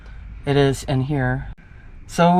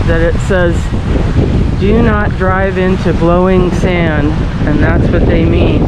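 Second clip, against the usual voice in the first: raised voice against the wind; shouting over wind; 2 semitones higher, 5 dB louder than usual. Real, not acted. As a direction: call out over the gusts. Talking outside in strong wind.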